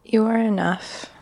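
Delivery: gently reassuring self-talk; loving voice. Pretend. Guest speaks to herself as her inner best friend, lightly tender. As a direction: say it like your kindest friend would. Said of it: "speak to yourself in that loving voice".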